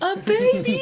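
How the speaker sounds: high, loud cry of disbelief; shouted outburst. Acted. Stunned queen leaping up at the trial, shouting. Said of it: "Nerissa stands up and shouts".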